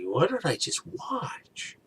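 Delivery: high, slow, stunned question; as if unable to believe what you just saw; baffled disbelief. Retold or imitated. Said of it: "I was just like".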